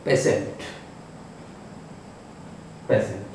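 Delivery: पेशेंट said with a clear sh sound, pe-shent; pronounced with sha. Shown as a demonstration. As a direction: say पेशेंट with sh in the middle, not t. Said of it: "इसको हम सा के रूप में लेंगे".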